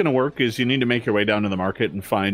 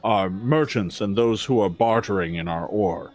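slightly lower, slow, measured orc guard; lightly voiced formal orc; 3 semitones lower than usual. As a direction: speak as a wary but courteous gatekeeper.

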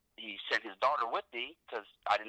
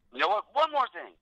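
ominous turn-back; 10 semitones higher, 6 dB louder than usual. Retold or imitated. Promoter turning back, tense buildup.

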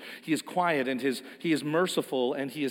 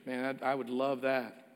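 sincere; 3 semitones lower, 6 dB quieter than usual. Real, not acted. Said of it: "If I said to you".

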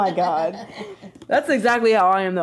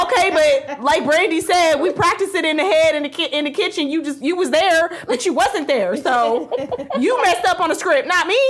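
higher-pitched mock arguing; indignant self-defence; 6 semitones higher than usual. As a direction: plead the case with a touch of laughter. Acted self-justifying quarrel with boyfriend.

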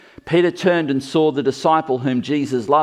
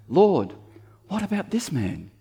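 all very religious; 7 semitones higher than usual. Pretend. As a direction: put on a hammed-up churchy tone. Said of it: "here's how it sounds all very religious".

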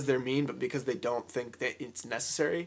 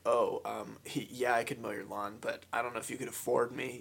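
lower, softer, condescending reply; snide, cocky; 3 semitones lower, 5 dB quieter than usual. Acted. Doubting a customer can afford the service, snide and cocky. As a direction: talk down with hesitant-sounding superiority. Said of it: "if you're not snide".

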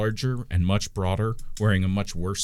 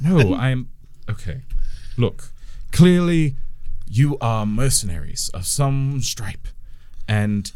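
lightly voiced wizard pleading; sheep wizard; 3 semitones higher than usual. Sheep addresses mercenaries.

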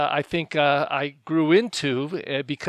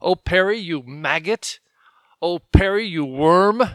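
God scolding me; 4 dB louder than usual. Retold or imitated. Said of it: "hear God speaking to us".

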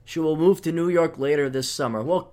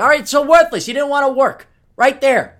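scornful outburst; 8 semitones higher, 8 dB louder than usual. Real, not acted. Ranting about a worthless degree.

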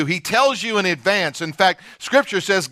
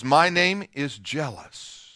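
softer slow proclamation; 4 semitones lower, 6 dB quieter, slower than usual. Acted. God's own words, quoted.

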